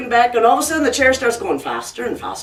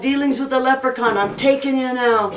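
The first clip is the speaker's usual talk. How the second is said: lightly voiced gloating devil. Devil claiming dying Jack, lightly acted gloating. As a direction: claim your prize, a hint of devilry.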